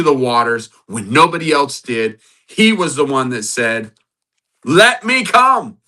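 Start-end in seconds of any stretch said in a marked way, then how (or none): 4.6-5.8 eager plea. Acted. Peter voiced asking to come.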